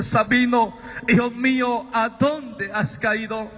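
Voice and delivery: slow, spaced-out fatherly question; lightly voiced divine voice; voice from the radiance. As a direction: call to a son, drawing out the question. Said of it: "aquella voz que salía del resplandor".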